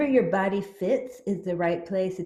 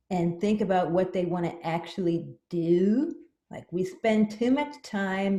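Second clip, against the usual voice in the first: psychic cat voice. Acted. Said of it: "she is the very special Maya, the Psychic Kitty".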